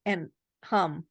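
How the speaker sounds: humming with nose pinched; nose plugged. Real, not acted. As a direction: hum with your nose held shut. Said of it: "plug your nose and hum".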